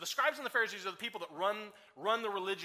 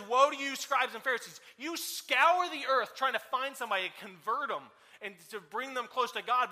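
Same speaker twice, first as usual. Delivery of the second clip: denouncing woe; 2 semitones higher, 6 dB louder than usual. Acted. Jesus denouncing the leaders.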